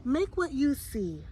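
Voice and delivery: slow, lightly voiced angel. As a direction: speak slowly, gently, like an angel. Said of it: "the angel said".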